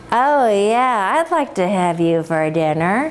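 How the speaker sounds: lightly voiced hungry wolf, dipping low; a hint of a scheming wolf; sly wolf. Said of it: "And the wolf says".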